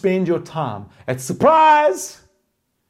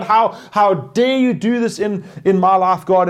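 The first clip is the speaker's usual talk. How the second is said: mock angry shout; 4 semitones higher, 4 dB louder than usual. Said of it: "you're shouting at God".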